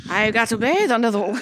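put-on a weak, half-hearted Scottish accent that breaks off; failed Scottish accent. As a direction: try a Scottish accent and fumble it. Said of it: "I can't do a Scottish accent".

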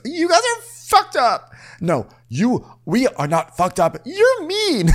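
hammed-up whiny accusation; mock Jen. Co-host imitating Jen calling them mean, whiny. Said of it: "And Jen goes".

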